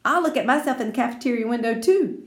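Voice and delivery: high, loud call, then fast; boy chasing after Lucille; excited shout. Acted. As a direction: call after her eagerly. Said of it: "he shouted".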